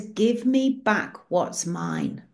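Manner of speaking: slow, lightly stern demand; a hint of thunder, said slowly; stern Jesus. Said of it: "Jesus' face looks like thunder".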